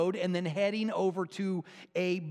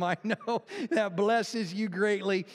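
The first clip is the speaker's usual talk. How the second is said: laughing; 3 semitones higher, slower than usual. Real, not acted. Joke wrap-up, teasing congregation.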